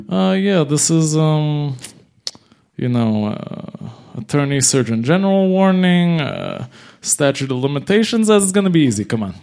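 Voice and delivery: breezy mock confidence between stalling ums; cocky, confident. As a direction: wave it all off as easy. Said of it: "really cocky and confident about it".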